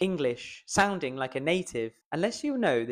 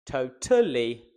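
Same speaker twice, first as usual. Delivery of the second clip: "totally" with the middle syllable punched; stress on TA; 3 dB louder, slower than usual. Shown as a demonstration. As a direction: misplace the stress, to-TA-lly. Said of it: "or try all three".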